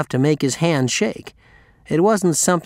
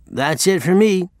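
slurred; 5 semitones higher than usual. Acted. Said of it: "slurring his words".

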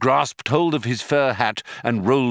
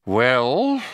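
sighed; 3 semitones higher, 3 dB louder than usual. A narrator's reading. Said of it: "sighed Mister Prosser".

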